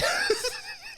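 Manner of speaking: squeaky burst of laughter; high laugh. Real, not acted. Laughing at the fight.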